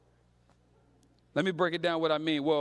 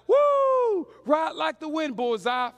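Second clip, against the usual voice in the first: much higher, louder whooping cowboy cry; cowboy yell; 7 semitones higher, 6 dB louder, much slower than usual. Retold or imitated. Kid riding his brother, loud whooping cowboy holler. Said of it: "I'm like".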